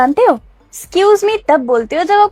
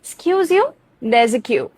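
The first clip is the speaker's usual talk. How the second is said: pointed retort; 2 semitones lower, 4 dB quieter, much slower than usual. Shown as a demonstration. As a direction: snap back at the line-cutter. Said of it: "इस तरह से।".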